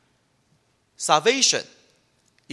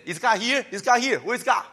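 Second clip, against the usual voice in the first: higher, whiny demanding question; mock complaint; 5 semitones higher than usual. Preacher mimics grumbling Israelites, whiny mock complaint. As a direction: sulk at God like a spoiled child. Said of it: "they always say".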